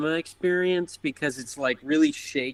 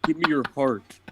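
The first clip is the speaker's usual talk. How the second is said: high, strained creepy demand; creepy robber voice; 4 semitones higher than usual. Acted. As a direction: leer and plead in a squeezed high voice. Mask robber gag voice.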